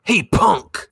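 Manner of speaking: high mock punk taunt; hammed-up thug yell; tough thug call. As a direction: bark it like a street tough. S0 voices thug calling out.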